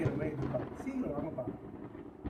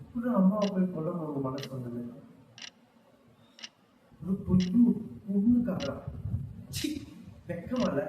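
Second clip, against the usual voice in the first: angry rebuke; 3 semitones higher, 6 dB louder than usual. Acted. Angry confrontation with brother.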